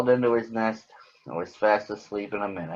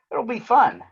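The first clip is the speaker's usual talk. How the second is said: Big Bird voice; 11 semitones higher, 3 dB louder than usual. Acted. Big Bird promises Granny.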